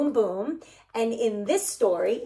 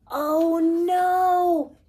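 higher mock oh-no for children; playful alarm; 7 semitones higher, 3 dB louder than usual. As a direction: sound worried in a hammed-up way. Tree bending under all letters.

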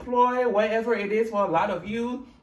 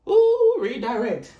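mock Siri voice; 4 semitones higher, 6 dB louder, slower than usual.

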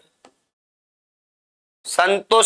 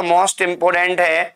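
most important drawn out slowly; slow, stressed most important; emphatic; much slower than usual. Shown as a demonstration. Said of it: "teacher stresses key word".

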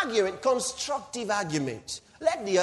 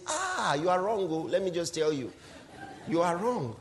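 lightly voiced brushing-off lawyer; a hint of a lawyer waving the client away; dismissive lawyer; 3 dB quieter than usual. Preacher imitating a lawyer dismissing his client, lightly voiced brush-off. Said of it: "he says".

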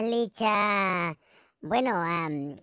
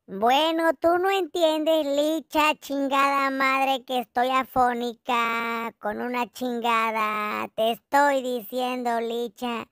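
angry outburst; 2 semitones higher than usual. Acted. To Licha, breaking the fake whisper, furious. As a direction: explode at Licha, forgetting the lost voice. Drops the act, yells at Licha.

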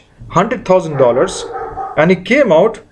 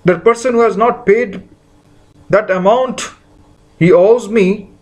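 higher, indignant protest of someone wronged; aggrieved indignant voice; 5 semitones higher than usual. Pretend. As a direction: let the grudge rise in disbelief. Voicing a resentful hurt person.

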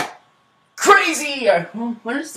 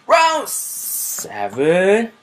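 booming fighting game announcer; 4 dB louder, much slower than usual. Pretend. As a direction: call the round like an arena announcer.

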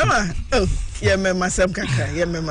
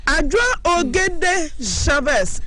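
excited greeting; 7 semitones higher, slower than usual. Real, not acted. Host greets caller by name.

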